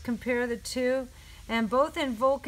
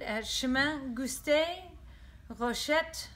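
put-on French accent; 3 semitones higher than usual. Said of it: "in my best French accent".

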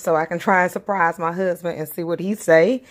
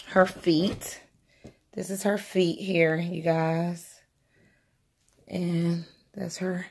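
hushed whisper; 2 semitones lower, 7 dB quieter, slower than usual. Real, not acted. To viewers while peeking at the doll, hushed whisper. Hoping YouTube won't flag her.

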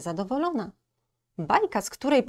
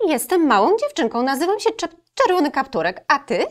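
put-on high, louder little girl voice; 8 semitones higher, 7 dB louder, faster than usual. Girl introducing herself to the wolf, high and bright. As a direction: chirp it like a friendly small girl.

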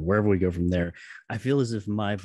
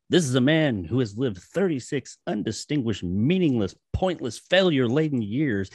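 narration read; 3 semitones higher than usual. Acted. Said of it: "read it out there".

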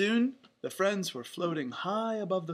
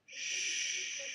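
soft, voiceless hushing; whispered shush; 7 dB quieter than usual. A narrator's reading. Donald hushing his friends, whispered shush. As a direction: hush them with a long shh. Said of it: "Donald whispered".

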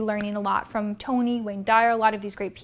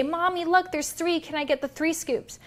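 put-on pleading child; 5 semitones higher than usual. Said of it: "They say".

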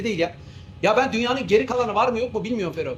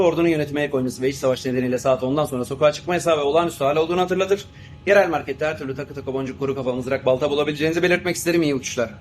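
formal cabin announcement over the intercom; captain reading the in-flight announcement to passengers; pilot announcement; 3 semitones lower than usual. Acted. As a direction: address the passengers like a smooth airline captain.

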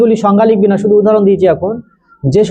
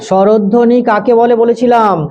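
slowly re-asking the question; slow repeated question; slower than usual. Shown as a demonstration. Teacher slowly re-asks the pupil the question. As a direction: repeat it slowly, word by word, so pupils can write. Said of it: "বল দেখি একটু".

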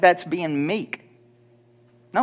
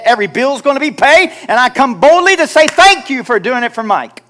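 confident prayer swelling into a shout; bold prayer; 4 semitones lower, 3 dB louder than usual. Shown as a demonstration. Models bold prayer, building.

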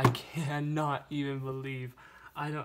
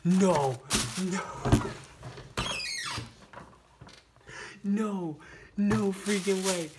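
rising, louder no-no-no of shock; real excitement, pitched up; loud disbelief; 4 semitones higher, 3 dB louder, slower than usual. Real, not acted. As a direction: build from a blurted no to a slow stunned peak. Sees the rare car.

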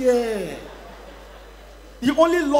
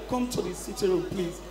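soft, low parental plea; gentle begging; 6 semitones lower, 9 dB quieter than usual. Acted. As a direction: coax a child quietly. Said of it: "Papa, they beg him".

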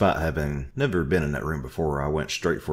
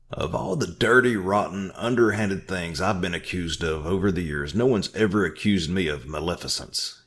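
higher indignant protest; indignant claim; 4 semitones higher than usual. Acted. Orville protesting the accusation, indignant. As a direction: act deeply wounded. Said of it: "he claimed".

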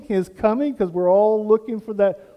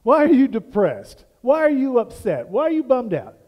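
a lightly voiced concerned God; God questioning Cain; 4 dB louder than usual. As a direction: keep pressing with each why. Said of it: "And he says".

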